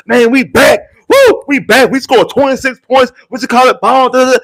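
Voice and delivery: high, loud mock celebration; hamming up fake excitement; mock hype. Mocking fans celebrating, in hammed-up hype. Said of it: "I'm not gonna sit up here and be like".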